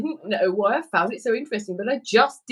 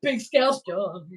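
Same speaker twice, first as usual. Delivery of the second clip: drawn out, savouring each word; slow relish; much slower than usual. Pretend. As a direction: stretch it out like a grand title.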